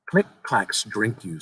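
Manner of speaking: put-on drawn out, spooky child; slow ominous boy. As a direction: let it sink in like a threat.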